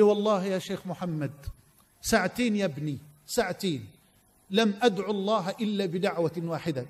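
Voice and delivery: put-on soft, low Egyptian Arabic voice of an old man; old man's Egyptian dialect, hushed. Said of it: "واسمحوا لي على اللهجة المصرية التي سأعبر بها".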